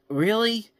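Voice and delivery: high-pitched, drawn-out disbelief; incredulous. Acted. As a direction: question the twist in disbelief. Mock reaction to absurd plot twist.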